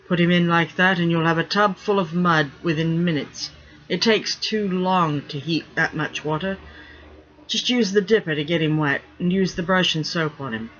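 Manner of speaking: a lightly voiced stern first mate; firm, half-amused ship's-mate order; gruff pirate mate scolding. First mate ordering the stinking rigger bathed, gruffly.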